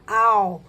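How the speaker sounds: "au" with final L turned into a U glide; L sounded as U. Shown as a demonstration. Teacher showing pupils A with final L, L sounded as U. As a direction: say "au", gliding from A into a U sound. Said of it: "vai passar a ter um som de U".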